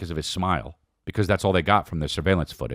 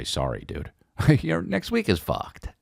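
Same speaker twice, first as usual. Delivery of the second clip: laughing mock apology; 10 semitones higher than usual. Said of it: "You might as well just say".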